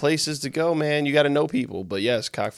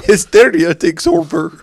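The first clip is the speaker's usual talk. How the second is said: mock rolled R's, slower; 8 semitones higher, 11 dB louder than usual. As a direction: trill the R in hysteria. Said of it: "Why are you rolling your R's".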